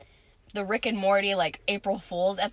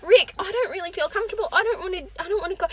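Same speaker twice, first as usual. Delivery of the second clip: put-on whiny kid voice; 9 semitones higher, faster than usual. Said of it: "Morty's like".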